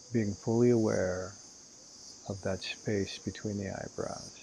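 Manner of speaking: unhurried guiding voice with long pauses; guided meditation. Acted. Meditation teacher guiding listeners to inhale and exhale, calm guided meditation. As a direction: lead them calmly through each breath, leaving room between phrases.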